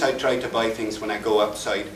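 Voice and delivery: I try to buy with only the Irish I shift. Shown as a demonstration. Repeating the demo sentence to the audience, in an Irish accent. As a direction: quote it back with Irish I vowels. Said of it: "all my shifts are only the I's".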